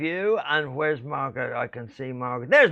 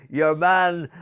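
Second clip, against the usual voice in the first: Irish phrase; 3 semitones higher, 4 dB louder than usual. Retold or imitated. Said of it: "they all say".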